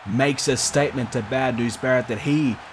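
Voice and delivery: lively wrestling play-by-play call; wrestling commentator. Acted. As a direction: call the match like a ringside announcer. Live game match commentary.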